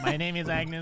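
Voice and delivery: imitating a flat android voice; mock robotic monotone. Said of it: "You're saying it like an android".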